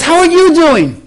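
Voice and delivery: high, sing-song greeting; imitated pushy woman. Annoying woman questions the pastor, over-friendly.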